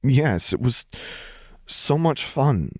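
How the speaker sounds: giddy delight. A narrator's reading. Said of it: "Lux chuckled".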